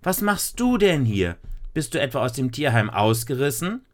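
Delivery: put-on high, surprised young girl. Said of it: "rief Lisa".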